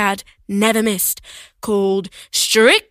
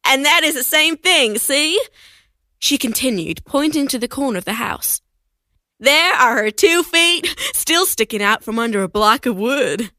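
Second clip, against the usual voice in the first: lightly voiced old woman; a hint of a cheerful old lady; little old woman.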